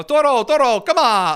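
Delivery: mock bullfighter. Commentator mocking AOC as a matador calling the bull. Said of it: "expecting someone to get out the red cape and go".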